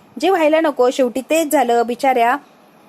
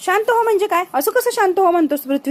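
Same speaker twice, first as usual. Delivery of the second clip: angry outburst; 7 semitones higher than usual. Acted. Saheb angry after lost deal.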